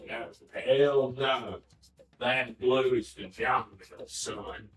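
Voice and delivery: emphatic. Pretend. Emphatic rebuttal.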